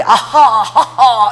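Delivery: loud, drawn-out "ahaha"; imitated laughing prayer. Preacher showing how she prays while laughing, mock laughter. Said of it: "이러면서 기도하는데 나는 웃으면서".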